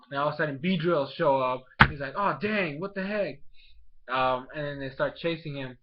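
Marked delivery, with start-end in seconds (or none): 2.2-3.4 higher-pitched mock alarm; alarmed surprise. Inventor as Beedrills suddenly show up, alarmed surprise. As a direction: imitate someone caught off guard. Acted reaction to Beedrills appearing.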